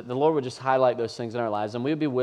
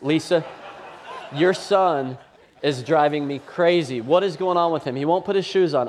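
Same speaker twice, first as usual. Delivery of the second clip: louder, higher, laughing exasperation; exasperated dad; 4 semitones higher, 3 dB louder than usual. Retold or imitated. Dad calls his wife, exasperated and laughing. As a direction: vent to your wife half laughing. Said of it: "I call his mom".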